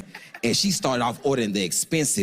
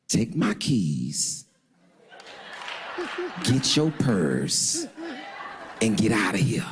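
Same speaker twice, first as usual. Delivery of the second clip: drawn-out words, pressing her to leave; each word spelled out, urgent; slow insistent order; 3 semitones lower, much slower than usual. Retold or imitated. Man presses date to leave, slow insistent order.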